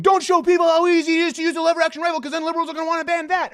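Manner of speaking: high, fast, loud panicked imitation; mock panic. Host imitating gun owners scared of a ban, mock panic. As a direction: rush it out like a hammed-up worrier. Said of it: "people right now I know are just panicking, going".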